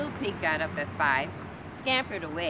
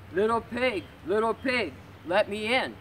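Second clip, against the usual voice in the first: louder, higher wolf at the door; wolf calling in; 4 semitones higher, 4 dB louder than usual. Acted. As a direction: call in like a wolf wanting in.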